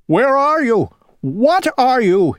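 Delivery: high, loud frantic cry. Acted. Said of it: "he cried".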